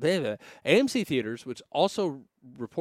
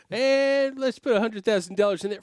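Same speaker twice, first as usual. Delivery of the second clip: laughing; 9 semitones higher, 5 dB louder than usual. Real, not acted. Laughing at crypto jump.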